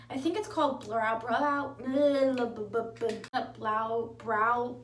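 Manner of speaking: repeated halting tries at Brow; groping for the word. Real, not acted. Vlogger forgets the product name, halting and unsure. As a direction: stumble over Brow again and again. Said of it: "how do you say brow in English?".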